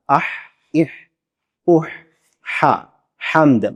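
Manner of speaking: اح drawn softly from the middle of the throat; a soft, sweet ح in حمد. Shown as a demonstration. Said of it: "سنیں آپ".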